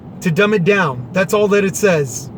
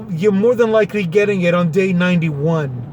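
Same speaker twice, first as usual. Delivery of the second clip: sarcastic. Acted. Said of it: "it's sarcasm".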